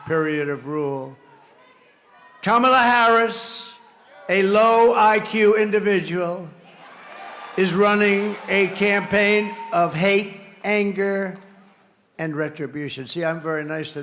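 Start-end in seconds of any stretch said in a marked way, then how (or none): 2.4-11.4 rally shout. Real, not acted. Rally insult of Kamala.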